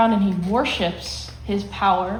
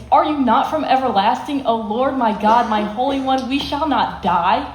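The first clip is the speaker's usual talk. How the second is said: mild mock panic; 2 semitones higher than usual. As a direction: plead to God as if freaking out, lightly. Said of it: "He's kind of freaking out".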